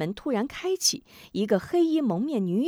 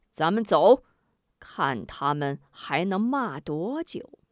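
sinister laughing taunt. Acted. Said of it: "许人依然哈哈阴笑".

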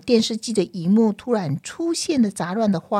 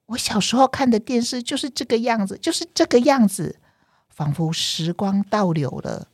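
nostalgic; 4 semitones higher than usual. Acted. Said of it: "小米爸爸非常的沉醉".

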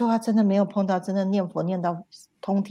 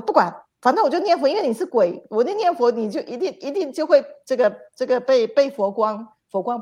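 higher, louder and fast, stubbornly determined; fast, raised insistence; defiant insistence; 4 semitones higher, 4 dB louder than usual. Retold or imitated. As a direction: blurt it out as if bracing against the blows. Defiant thought while being whipped.

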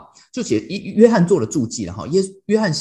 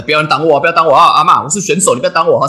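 loud, pitched-up playful yelling to clear the way; mock yell at grandma; 4 semitones higher, 9 dB louder, faster than usual. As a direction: shout like a racer telling grandma to move. Yelling at grandma blocking scooter.

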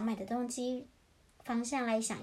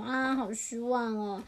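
slow, let-down little chick; lightly acted storybook disappointment; mock disappointment; slower than usual. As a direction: sigh it out slowly in mild dismay.

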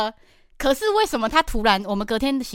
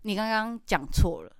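calm; 5 dB quieter than usual. Shown as a demonstration. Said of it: "你可以直接冷静的说".

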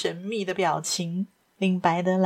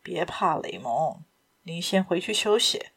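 lower, softer, gently soothing; calm her fears tenderly; reassuring; 4 semitones lower, 4 dB quieter than usual. Acted. Lupin calms frightened wife.

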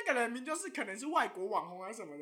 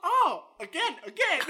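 slow mock request; 5 semitones higher, 6 dB louder, much slower than usual. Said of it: "然后我就说".

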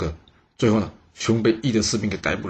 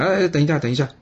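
shouting to stop; 6 semitones higher, faster than usual. A narrator's reading. General Yi stops the soldiers from beheading, urgent shout. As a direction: call out to halt the execution. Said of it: "义突然间大声喊".

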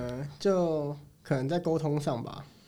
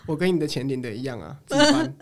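blunt retort; 5 dB louder than usual. Retold or imitated. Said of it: "所以我们就回她说".

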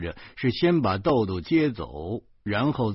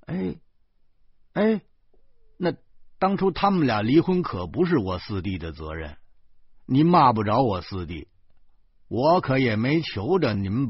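raised, indignant voice, getting louder; angry retort; 4 dB louder than usual. Acted. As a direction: snap back in a temper. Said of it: "我就怒了， 我奔声说".

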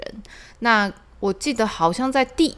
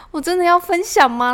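anxious; 12 semitones higher, 6 dB louder than usual. Retold or imitated. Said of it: "很焦虑，很焦虑".

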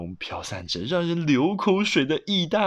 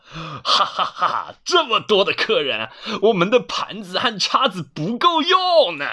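jolly grandpa, raised and animated; laughing grandpa; 5 semitones higher, 4 dB louder than usual. Acted. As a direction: chuckle through the remark. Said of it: "爷爷笑着说".

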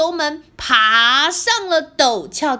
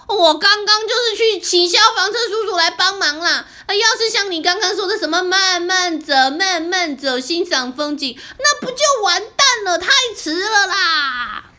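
a bit annoyed; 4 semitones higher, faster than usual. Acted. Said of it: "小黑有点生气地说".

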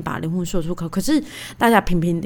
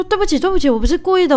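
higher, sheepish mock apology; husband apologizing; 9 semitones higher, faster than usual. Husband apologizing to wife after slap, lightly voiced sheepish. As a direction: play the husband pleading innocence.

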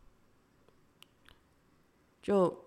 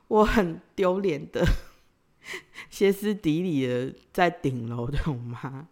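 slow words broken by a sheepish laugh; embarrassed laughing. Real, not acted. Admitting she lost it on the rooftop, laughing sheepishly. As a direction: laugh at yourself while confessing.

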